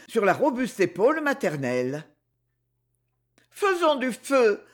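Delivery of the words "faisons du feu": higher, slow, plaintive plea. A narrator's reading. Zina pleading plaintively with her mother for fire. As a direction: whine it out, begging. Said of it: "répéta-t-elle d'un ton plaintif".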